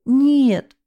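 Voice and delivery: high, loud sobbing cry. A narrator's reading. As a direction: sob it out. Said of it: "всхлипнула портье". (всхлипывая, высоко и громко)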